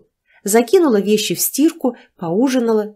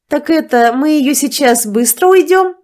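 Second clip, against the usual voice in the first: laughing; 7 semitones higher, 6 dB louder than usual. A narrator's reading. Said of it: "рассмеялась моя соседка Настя".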